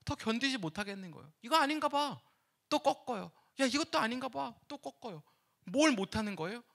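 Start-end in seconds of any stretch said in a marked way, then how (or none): 1.4-2.2 higher, resigned sigh of a quitter; a hint of giving up and turning away. Digger in the parable gives up, mildly resigned. 3.6-4.5 higher, resigned sigh of a quitter; a hint of giving up and turning away. Digger in the parable gives up, mildly resigned.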